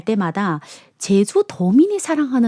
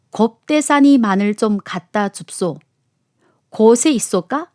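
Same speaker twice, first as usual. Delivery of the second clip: lightly voiced Jeju dialect request. Jeju elder asking for garlic at the restaurant, in lightly acted dialect. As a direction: ask for it with a touch of Jeju dialect. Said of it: "특유한 제주 사투리에".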